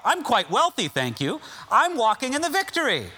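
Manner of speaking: hammed-up boast about health and wealth; smug boastful Corinthian. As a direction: brag like a proud church member. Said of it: "They would say".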